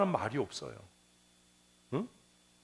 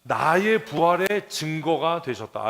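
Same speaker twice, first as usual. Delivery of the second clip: own words, slowly; 5 dB louder, slower than usual. Shown as a demonstration. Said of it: "내 말로 다시 이야기할 수 있어야".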